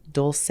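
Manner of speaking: dulce said DOLE-say, softly; two-syllable guess. Shown as a demonstration. Vlogger can't decide, dulce as a tentative DOLE-say. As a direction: end dulce on "say", giving up. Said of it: "I, I can't".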